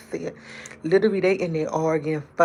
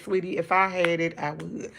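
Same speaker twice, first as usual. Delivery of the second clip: tender refusal. Retold or imitated. Gentle refusal to beggar.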